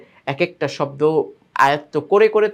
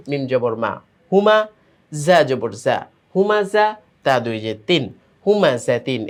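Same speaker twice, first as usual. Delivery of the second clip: sing-song letter-by-letter chant, pitch rising and falling; spelling drill recitation. Shown as a demonstration. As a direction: chant each spelling, then join the syllables. (সুর করে বানান করে পড়া)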